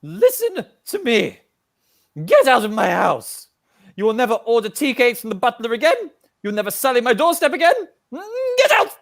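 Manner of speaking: put-on stern old lady ordering out; angry granny. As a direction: throw her out of the house. Granny throws guest out.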